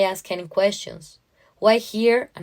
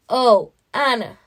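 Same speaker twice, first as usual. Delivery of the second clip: higher, louder and slowed with relief; overjoyed cry; 4 semitones higher, 6 dB louder, slower than usual. Acted. Mother seeing her lost daughter step off the train, overjoyed cry.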